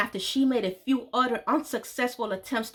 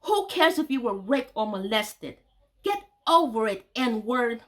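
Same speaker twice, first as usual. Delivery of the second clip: hateful. Retold or imitated. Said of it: "Her hateful energy translated two main things".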